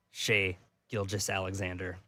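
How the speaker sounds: drawn out, quiet and careful; slowly. Real, not acted. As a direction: say the name slowly, dropping low. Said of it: "you said S G A's name slowly there".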